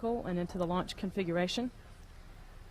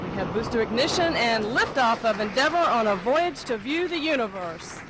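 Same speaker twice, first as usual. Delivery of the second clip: excited; 3 semitones higher, 4 dB louder than usual. Real, not acted. Liftoff call during launch countdown.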